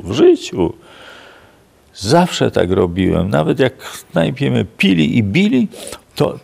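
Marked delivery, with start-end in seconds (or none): 0.0-0.7 "w życiu" repeated loud but falling, back at normal pitch; closing the point with a loud falling "w życiu"; imitated insistence settling down, "w życiu" loud with a falling end; firm retold repeat.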